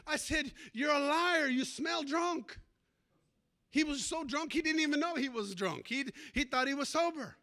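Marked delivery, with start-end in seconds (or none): 0.7-2.6 louder, higher scolding; stern rebuke. Retold or imitated. Pastor confronting the drunk man, stern loud rebuke. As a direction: call him out hard, then slow down.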